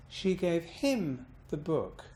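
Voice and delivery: "him" lifted and stretched, then falling; stress on HIM. Shown as a demonstration. Teacher shifting the meaning, bouncing on him. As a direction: bounce on "him", drop down for "the book". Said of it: "I bounced on him".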